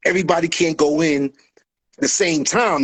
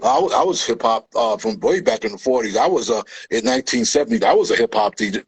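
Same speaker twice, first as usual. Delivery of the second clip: lower, hammed-up bragging poser; mock poser; 5 semitones lower than usual. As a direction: claim fake credentials smugly. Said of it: "Now all of a sudden you".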